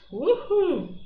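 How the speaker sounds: excited whoop. Real, not acted. Cheering the phrasal verb.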